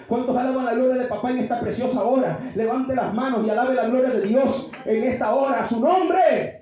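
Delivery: lifted call to the congregation; rallying preaching. Real, not acted. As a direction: urge them to praise, building to a loud finish. Preacher rallies congregation to praise. (arenga de predicador)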